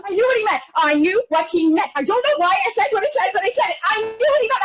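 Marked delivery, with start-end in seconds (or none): 0.0-1.9 shouting. Retold or imitated. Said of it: "I shouted!". 3.8-4.6 higher, insistent cry of I knew; shouting. Retold or imitated. Woman shouting at the waiter, higher and insistent. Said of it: "I shouted!".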